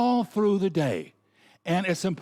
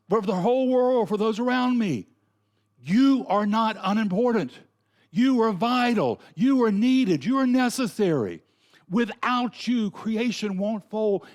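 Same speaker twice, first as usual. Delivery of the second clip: raised, ringing preacher voice, each YOU driven home; emphatic preaching; 6 semitones higher, 3 dB louder than usual. Real, not acted. Preacher urging the congregation they matter, emphatic and raised. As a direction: preach it out so every listener feels needed.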